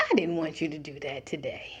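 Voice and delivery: put-on God hushed and gentle to a child who slipped; soft correction. God softly correcting his child, hushed and disappointed. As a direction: say it low, a disappointed near-murmur.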